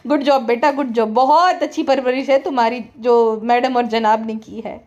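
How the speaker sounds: laughing, mocking "good job"; sarcastic praise. Real, not acted. Scolding the parents through the kid, mocking praise.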